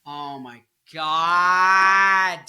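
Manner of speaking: long, slow, loud mock despair; hammed-up outcry; mock dramatic wail. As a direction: drag it out like a soap opera.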